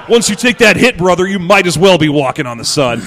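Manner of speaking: wrestler promo voice. Pretend.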